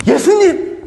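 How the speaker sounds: high, loud cry of the name; alarmed cry. Acted. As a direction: grab him and cry out. Peter grabbing Jesus by collar.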